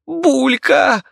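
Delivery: high piercing scream; shrill scream. Acted. Viki screams as her rat charges the monster, piercing shriek. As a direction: shriek the name in fear. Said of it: "заверещала Вики".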